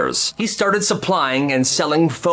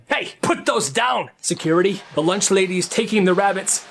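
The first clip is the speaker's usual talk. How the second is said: higher, urgent call; calling security; 4 semitones higher than usual. Retold or imitated. Teacher calls security.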